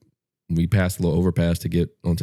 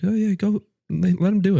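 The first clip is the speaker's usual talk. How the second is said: mocking wife; 13 semitones higher than usual. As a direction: play the carefree wife, lightly mocking. Imitating wife's breezy permission.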